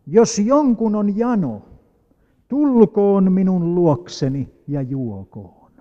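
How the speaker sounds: Jesus calling the thirsty, slow and loud; crying out loud. Acted. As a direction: call out to a far crowd, drawn out. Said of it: "huusi kovalla äänellä".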